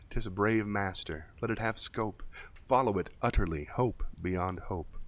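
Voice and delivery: a mild hint of a British accent, reading the poem solemnly; lightly British poetry reading. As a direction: recite in a light British accent, trying to sound cool and important. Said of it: "Was that a British accent?".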